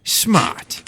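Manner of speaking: breathy high jeer; a curt gruff retort. A narrator's reading. Steward dismissing them.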